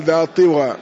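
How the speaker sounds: "طوى" said ṭiwa, i after the ṭāʾ; kasra on the ṭāʾ. Shown as a demonstration. Teacher showing al-Asili's reading, "طوى" with i. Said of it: "وقيدها الأصيلي بكسرها".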